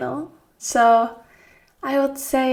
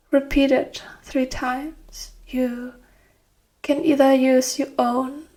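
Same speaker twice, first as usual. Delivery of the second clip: guided meditation. Acted. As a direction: guide them gently into rest, phrase by phrase. Leads guided relaxation.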